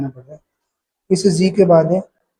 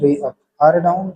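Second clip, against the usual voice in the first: slow, spaced drill of the two sounds; slow practice recitation; much slower than usual. Shown as a demonstration. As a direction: say each one slowly for the learner. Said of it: "तो इनको ऐसे practice करना".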